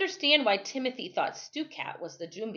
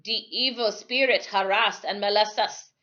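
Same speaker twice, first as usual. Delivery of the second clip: put-on dark old islander; 4 dB louder than usual. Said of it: "he said darkly".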